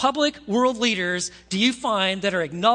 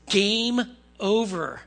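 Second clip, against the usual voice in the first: drawn-out, emphatic verdict; slow pronouncement; 3 dB louder, much slower than usual. Acted. Writing on the wall to the partying king, slow pronouncement. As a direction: stretch each word like a final sentence.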